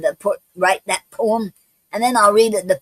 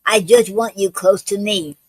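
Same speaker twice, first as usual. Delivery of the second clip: reading a love sonnet aloud; poem reading. Acted. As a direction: recite your own poem line by line, pausing between phrases. Reads own sonnet aloud.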